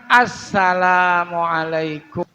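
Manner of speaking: assalamualaikum with a held double s; correct greeting. Shown as a demonstration. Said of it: "Yang benar". ("assalamualaikum" dengan sin bertasydid)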